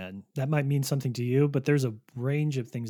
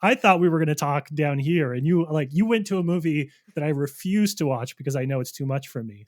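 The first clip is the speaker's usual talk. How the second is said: louder, overwhelmed mock outburst; my own reaction; 2 semitones higher, 6 dB louder than usual. Telling a horror fan the film is too much, loud mock panic. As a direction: blurt it out loud, flustered and laughing. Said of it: "And I was like".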